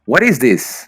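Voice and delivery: a hammed-up confused tourist; puzzled mock question. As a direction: play the lost newcomer, pitch up. Puzzled listener hears Aussie slang.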